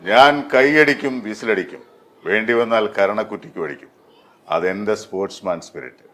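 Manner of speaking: punchy film dialogue, each phrase set apart; Ranjith. Shown as a demonstration. Dubbing artist performs a villain's hit line on request, theatrically. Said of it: "Ranjith സാറിന് എന്ത് ചെയ്യാം?".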